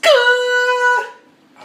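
very high, loud shouted かー; loud kaa yell. Acted. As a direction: blast the かー out at full volume. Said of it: "あ、ごめん、ちょっと".

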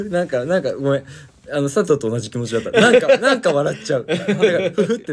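giggling through words; laughing. Real, not acted.

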